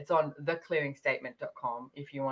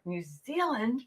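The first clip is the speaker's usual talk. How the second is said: high, disbelieving New Zealand?; a lawyer in Vienna hearing where the next class is, incredulous; 8 semitones higher, slower than usual. Retold or imitated. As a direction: act floored by how far away it is. He hears the class location.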